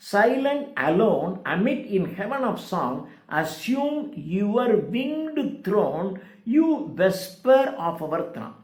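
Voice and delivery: slow, measured verse reading; poetry recitation. Acted. Lecturer reading Shelley's stanza to the class, slow recitation. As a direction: recite it word by word, drawn out. Reads poem lines aloud.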